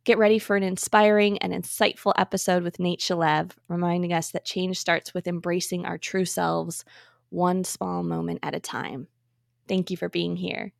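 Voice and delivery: polished, measured host announcement; podcast intro read. Acted. Host introduces an inclusivity expert to listeners, scripted podcast intro read. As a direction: read the episode introduction clearly, phrase by phrase.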